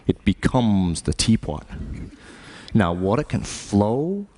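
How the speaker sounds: lightly voiced martial arts master; Bruce Lee impression. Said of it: "He would say things like".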